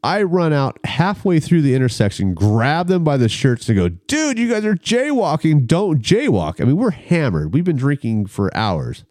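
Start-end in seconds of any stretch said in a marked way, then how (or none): 3.9-6.6 high-pitched alarmed plea to friends; retold warning, pitched right up; urgent warning. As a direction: stop them, voice jumping high. Warning his drunk friends in retelling.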